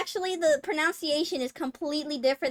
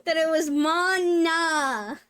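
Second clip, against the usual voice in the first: laughing; 4 semitones higher, 4 dB louder, slower than usual. Real, not acted. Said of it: "never guessed".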